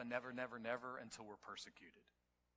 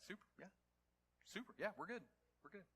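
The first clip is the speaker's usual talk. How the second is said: breezy crowd reply; 6 semitones higher, 4 dB quieter, faster than usual. Retold or imitated. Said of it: "everybody's like".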